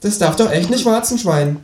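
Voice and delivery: high, falsely innocent kangaroo voice; mock-innocent talking animal; sanctimonious. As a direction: ask with feigned innocence, high-pitched. Kangaroo teases the narrator.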